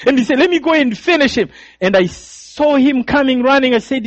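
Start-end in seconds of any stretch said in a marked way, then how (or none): 0.4-1.5 higher, keen offer to kill; eager killer. Retold or imitated. Killer offering to finish the boy, higher voice. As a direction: step up eagerly.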